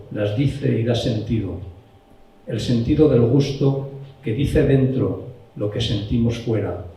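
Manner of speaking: poetry recital in separate phrases; poem reading. Acted. Reading another poem about taste to the group, measured recital. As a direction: read the verse aloud, pausing between lines.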